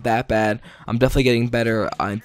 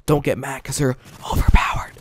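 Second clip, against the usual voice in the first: whispered aside; 2 semitones higher than usual. Real, not acted. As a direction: whisper it like a secret tip. Aside about weapons being overpowered.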